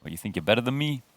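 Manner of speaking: hammed-up American wiseguy challenge; mock American accent. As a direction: put on a cocky American accent. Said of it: "American accent".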